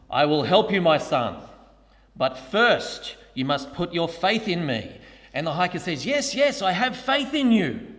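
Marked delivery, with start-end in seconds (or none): 0.1-4.9 booming majestic voice. Retold or imitated. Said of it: "this majestic voice booms through the gorge". 6.1-7.9 high, hurried eager pleading; eager desperate yes. Retold or imitated. Hiker eagerly answers the voice.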